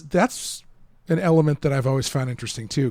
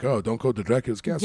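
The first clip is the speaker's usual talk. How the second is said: put-on light Transylvanian villager accent; Eastern European accent; 3 semitones lower, 3 dB quieter than usual. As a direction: warn them in a hint of Eastern European accent. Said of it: "I like your Eastern European accent".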